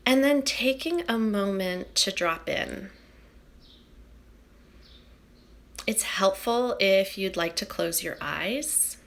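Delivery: calm, unhurried meditation guiding; soothing guide settling a group into stillness; guided meditation. Acted. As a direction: ease listeners inward with long, settled pauses.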